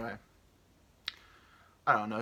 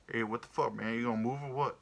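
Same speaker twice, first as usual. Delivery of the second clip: jive-talking goose. Acted. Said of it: "a jive talking black guy".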